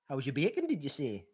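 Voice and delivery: put-on Geordie catchphrase; Geordie accent. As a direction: do a Geordie impression. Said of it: "do a Geordie accent".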